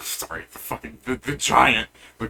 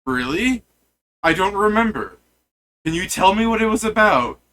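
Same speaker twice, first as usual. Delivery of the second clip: giant voice; 6 semitones higher, 4 dB louder than usual. Acted. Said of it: "He goes".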